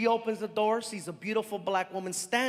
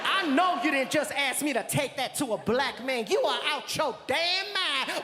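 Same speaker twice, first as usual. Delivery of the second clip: sassy outraged refusal; mock outrage; acted indignation; 3 semitones higher than usual. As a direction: play the affronted woman.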